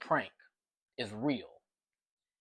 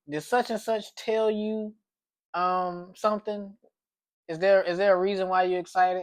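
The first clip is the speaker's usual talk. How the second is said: probing question; 6 semitones higher than usual. Retold or imitated. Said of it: "I was like".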